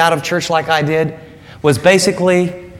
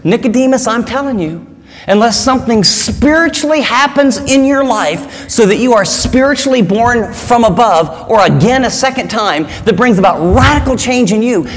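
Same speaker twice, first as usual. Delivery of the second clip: earnest paraphrase; 4 semitones higher than usual. Pretend. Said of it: "Jesus is saying, wrapping it up".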